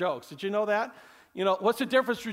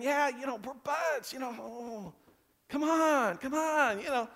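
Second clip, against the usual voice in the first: casual brush-off; 5 semitones higher, 4 dB quieter than usual. Acted. Peter brushing Jesus off casually.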